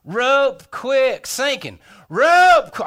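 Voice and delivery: rehearsed holler, high and loud on "rope"; loud, high practice shout; trial yell. Retold or imitated. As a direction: try out the distress call. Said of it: "I'll yell".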